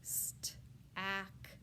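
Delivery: "St-" whispered, then "ack" split off; sounded out. Shown as a demonstration. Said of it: "All right, stack".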